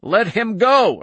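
high, loud commanding shout; bull-throated shout. A narrator's reading. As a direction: bellow it like a bull. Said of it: "Irv Mander shouted, bull-throated".

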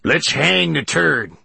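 high, slow, drawn-out holler; calling out. A narrator's reading. Thug calling from the rear gallery, rowdy holler. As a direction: shout it across the crowd. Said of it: "called an ugly thug from the gallery".

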